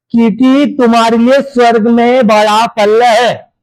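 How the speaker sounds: slow, measured verse reading; scripture reading. A narrator's reading. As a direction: read the verse out word by word, unhurried. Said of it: "आगे क्या बता रहे देखो". (धीरे-धीरे वचन पढ़ते हुए)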